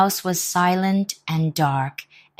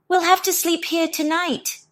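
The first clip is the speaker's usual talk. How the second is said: donkey voice; 13 semitones higher than usual. Acted. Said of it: "said the donkey".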